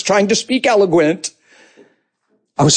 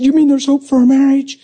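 hopeful surprise; 5 semitones higher than usual. Retold or imitated. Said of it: "And she said".

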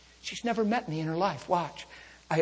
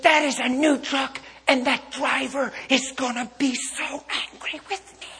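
higher, louder frantic woman, laughing through it; frantic fretting lady; 8 semitones higher, 6 dB louder than usual. Retold or imitated. Preacher mimics crash victim fearing the angry driver, hammed-up panic. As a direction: play the panicked driver with amused exaggeration.

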